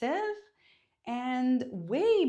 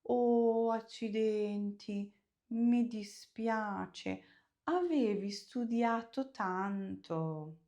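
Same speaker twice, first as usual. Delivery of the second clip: sympathetic dismay; slower than usual. Shown as a demonstration. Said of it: "Use the intonation to make it positive or negative".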